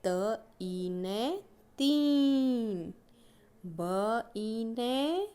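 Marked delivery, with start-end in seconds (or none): 1.8-2.9 तीन sung out slow, higher and louder; long vowel drawn out. Shown as a demonstration. Teacher to children, drawing out the long ई in तीन. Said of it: "आपको बड़ी sound सुनाई दे रही है".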